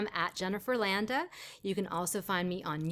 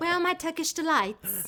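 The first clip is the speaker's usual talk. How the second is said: put-on British accent, pitched high; 7 semitones higher than usual. Joking about becoming British in a magical land: put-on British accent. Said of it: "your British accent".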